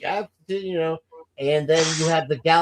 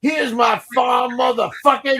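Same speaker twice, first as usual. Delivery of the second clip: much higher, louder, slow yell; shouted movie line; 9 semitones higher, 4 dB louder than usual. Retold or imitated. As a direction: bark it like a boy with a gun. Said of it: "He goes".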